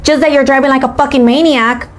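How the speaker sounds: high, put-on accusing voice; mock teenage driver. Teenage driver accusing her, high mocking imitation.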